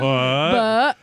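"But" ending in a swallowed T; dropped T. Shown as a demonstration. Demonstrating the Michigan silent T, "But" cut short. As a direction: say "But" without releasing the T. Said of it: "There's almost a T".

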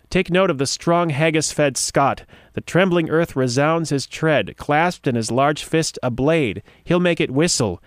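slow, grand recital of verse; slow heroic poem reading; dramatic poem reading. Acted. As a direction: declaim it like a battle ode.

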